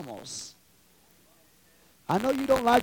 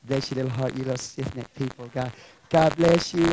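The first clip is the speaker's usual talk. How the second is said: mock sweetness; 7 semitones lower than usual. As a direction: pretend to coddle them gently. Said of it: "I hate to talk like that, but you sweet things".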